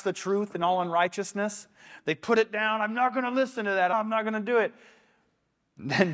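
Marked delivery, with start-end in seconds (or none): 2.8-4.7 higher-pitched, defiant protest; mock protest, pitched up and hurried; mock stubborn refusal. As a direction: imitate someone refusing to listen. Voicing people suppressing the truth.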